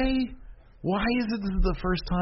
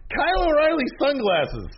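excited. Real, not acted. Excited high pitch.

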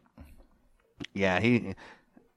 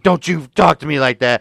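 mock indignation, raised and louder; indignant retort; 5 semitones higher, 5 dB louder than usual. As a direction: snap back as an offended woman. Acted rebuke to the doc.

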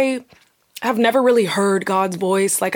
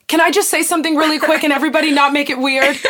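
higher, nervous preamble; awkward request; 5 semitones higher, faster than usual. Retold or imitated. Sibling asking family for a moment after prayer, mildly nervous. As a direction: brace the room before confessing.

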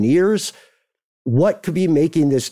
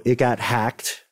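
ordinary talk

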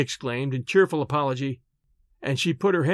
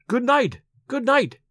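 mocking singsong goodbye, pitched up; high mocking call; derisive call; 8 semitones higher than usual. A narrator's reading. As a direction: toss it off in derision. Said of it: "called Olivia ... in derision".

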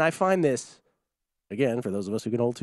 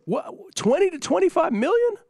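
very high-pitched, louder disbelief; incredulous outburst; 4 dB louder than usual. Real, not acted. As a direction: squeal the figure as an astonished question. Incredulous at the reported salary demand.

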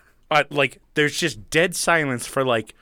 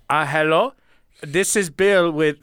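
a hint of a hesitant salesman; lightly voiced phone salesman; mock caller; 4 semitones higher, 5 dB louder than usual. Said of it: "this dude comes on and he goes".

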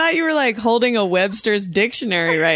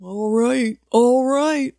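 higher put-on grandma sign-off; grandmother impression; 5 semitones higher, much slower than usual. Guest imitating grandmother ending a call, put-on voice. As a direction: mimic grandma winding up a phone call. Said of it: "That's how she ends every call".

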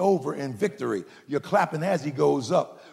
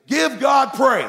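high, loud, slow shout; rousing call for praise; 9 semitones higher, 8 dB louder, slower than usual. Real, not acted. Preacher commanding the congregation to praise, loud rallying shout. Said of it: "I'm gonna say it to you".

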